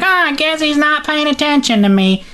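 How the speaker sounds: high, put-on whine; hammed-up letdown, pitched high; mock disappointed Lois. Lois watching Superman fly away, mock disappointment. Voices ignored Lois as he flies off.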